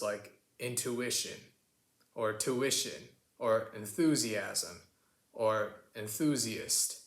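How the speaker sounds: intuition, enthusiasm with a plain 'oo', no y-glide; American pronunciation. Shown as a demonstration. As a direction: drop the y in intuition, tuition, enthusiast. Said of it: "we like to drop the y's".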